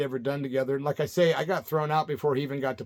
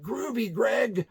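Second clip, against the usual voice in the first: slow, higher Brady-style drawl; groovy seventies drawl; 6 semitones higher, much slower than usual. Retold or imitated. Calling a heckler Greg Brady, slow and mocking. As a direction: stretch out the groovy like a sitcom kid. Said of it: "called somebody Mister Brady and said".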